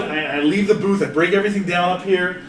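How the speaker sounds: ordinary talk, nothing marked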